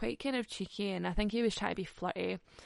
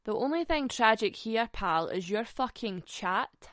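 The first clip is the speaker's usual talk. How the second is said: louder, cutting put-down; mock-savage comeback, a bit louder; sassy comeback; 5 dB louder than usual. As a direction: put him in his place with sass. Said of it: "And I was like".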